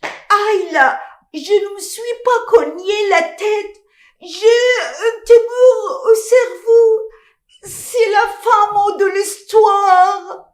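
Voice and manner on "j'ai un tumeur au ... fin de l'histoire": melodramatic. Acted. Melodramatic doom declaration.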